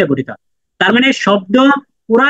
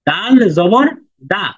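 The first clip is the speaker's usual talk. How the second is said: slow recitation; much slower than usual. Shown as a demonstration. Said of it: "আমার সাথে সাথে বলার চেষ্টা করেন".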